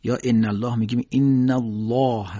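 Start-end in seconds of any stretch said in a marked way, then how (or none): 0.2-0.8 emphatic tafkhim demonstration; heavy lam. Shown as a demonstration. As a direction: say "الله" full-mouthed, tongue raised at the back.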